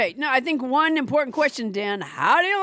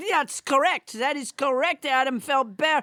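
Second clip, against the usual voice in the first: French Trump voice. Acted. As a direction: keep the French Trump puppet going. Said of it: "French Trump would disown her".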